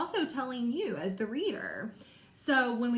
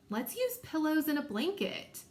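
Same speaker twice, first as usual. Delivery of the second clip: higher-pitched, eager character reading; excited Kendra; 6 semitones higher than usual. Shown as a demonstration. Teacher modeling expressive reading as the character, excited and higher. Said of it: "made my voice sound like how I thought Kendra would sound".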